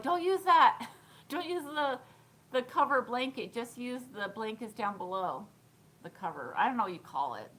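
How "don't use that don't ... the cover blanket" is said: raised, louder mock warning; mock warning to self. Talking to herself in a hotel room, a loud mock warning. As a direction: playfully warn off the cover blanket. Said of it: "put it on the floor, like".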